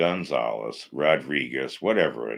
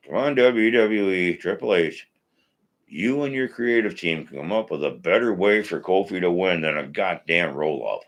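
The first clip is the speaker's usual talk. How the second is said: raised voice pushing at Triple H; real irritation. Real, not acted. Host venting at WWE creative over roll-up finish, angry. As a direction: scold the creative team, really fed up. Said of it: "Sorry, I'm getting pissed".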